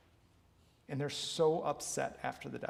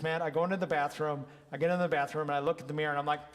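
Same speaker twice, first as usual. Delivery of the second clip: louder, lively client account; animated retelling; 3 semitones higher, 7 dB louder, much faster than usual. Retold or imitated. Client telling her coach Matt about the mirror, animated. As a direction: tell it with rising energy.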